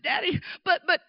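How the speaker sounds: high, halting mock objection; protesting little child. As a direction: imitate a kid trying to interrupt Daddy.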